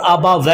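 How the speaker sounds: आबा वह with a flat 'weh'; wrong majhool vowel. Shown as a demonstration. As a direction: say आबा वह as abaweh, without the glide. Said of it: "मजहूल हो जाएगा और गलत". (आबा वह को 'आबा वेह' जैसा)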